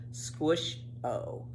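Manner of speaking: soft unvoiced whisper, falling away; whispered echo. Reading a children's chapter, echoing the refrain in a whisper. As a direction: breathe the second squish-o like a fading echo.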